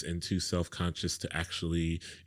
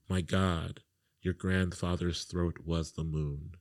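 measured, deliberate poetry reading with pauses; poem reading. Acted. Reads his chosen poem aloud.

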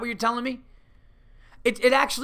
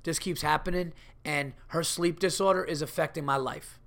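quiet, measured complaint to the manager; calm complaint; 3 semitones lower, 4 dB quieter than usual. Pretend. Scripting a worker's calm talk with his manager, measured. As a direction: keep it calm and even, no heat. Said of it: "Go up to your manager calmly and go".

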